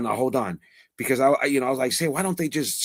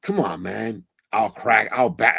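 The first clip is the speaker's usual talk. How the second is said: mock tough-guy barking, lower; 3 semitones lower than usual. Retelling a clip of a rival streamer, imitating a fake tough voice. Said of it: "that fake hardness".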